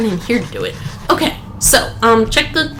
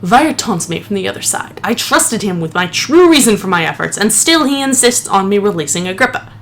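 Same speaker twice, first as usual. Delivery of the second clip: steadier, more serious reading of the note; dignified retry; 4 semitones lower than usual. Acted. Gamer rereads the note seriously after laughing at himself. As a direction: restore the dignity of the journal. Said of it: "Let me try again".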